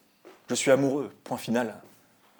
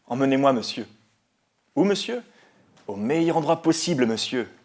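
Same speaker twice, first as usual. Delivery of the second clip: loud, raised-pitch hailing of a cab; calling to driver; 3 semitones higher, 6 dB louder than usual. Acted. Passenger to the taxi driver, calling out. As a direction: call out eagerly to the taxi driver.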